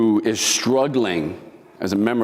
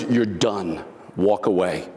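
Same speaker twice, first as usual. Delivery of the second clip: gentle but commanding; 5 semitones lower, slower than usual. Retold or imitated. Inner voice telling him to leave the bar, gentle but commanding. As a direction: ease it out gently but leave no room to argue. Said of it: "in this sort of gentle voice, but very commanding".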